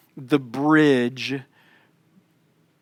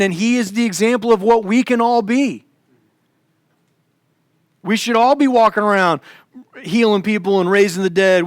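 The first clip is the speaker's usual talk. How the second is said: mock preachy zeal; 3 semitones higher than usual. Mocking humanist preaching.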